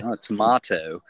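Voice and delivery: tomato as a British tomahto, lightly put on; mock English accent. Guest teasing the English host's accent, mild mock British. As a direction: tease the English host with tomahto. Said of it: "Are you taking the mick out of my accent?".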